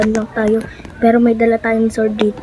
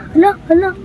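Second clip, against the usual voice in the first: frightened yelling; 5 semitones higher, faster than usual. Real, not acted. Clown approaching, frightened yelling.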